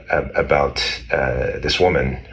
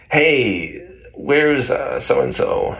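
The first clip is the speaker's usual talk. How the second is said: searching wife; 9 semitones higher, much slower than usual. Retold or imitated. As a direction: call out for someone, lightly acted. Voicing searching wife in legend.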